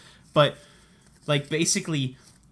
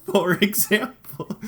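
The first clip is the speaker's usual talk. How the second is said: for example drawn out through a laugh, higher; laughing, higher and slow; 5 semitones higher, slower than usual. Shown as a demonstration. Retelling the Zell card story, laughing slowly. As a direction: restart the phrase giggling and slow.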